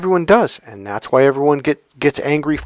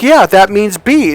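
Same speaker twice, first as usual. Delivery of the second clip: acted insistence; 7 semitones higher, 6 dB louder, slower than usual. Acted couple's quarrel.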